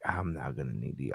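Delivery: chuckling through the line; laughing. Retold or imitated. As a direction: laugh while you say it. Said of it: "And they're like".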